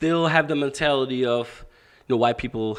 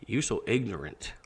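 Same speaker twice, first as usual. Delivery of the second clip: self-scolding; 4 semitones lower, 10 dB quieter than usual. Retold or imitated. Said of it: "it hit me so big one day that I was like".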